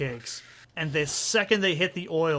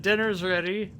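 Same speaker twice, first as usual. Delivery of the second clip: higher-pitched, unshouted announcement; retold text message; 4 semitones higher than usual. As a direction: announce it lightly, as if texting. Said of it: "like, in text".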